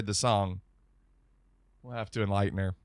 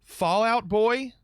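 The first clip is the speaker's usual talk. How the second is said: incredulous; 7 semitones higher, 3 dB louder, slower than usual. Real, not acted. Incredulous question.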